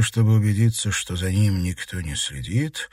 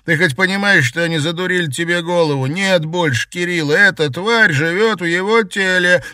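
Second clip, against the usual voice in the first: angry pleading; 9 semitones higher, 5 dB louder than usual. Acted. Brother angrily warns sister.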